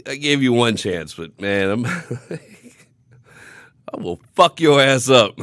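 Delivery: building from firm to a loud, slowed yell; loud, drawn-out threat to the guy who called him little; retold furious threat. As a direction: let the anger swell until it bursts out. Retold threat, rising fury.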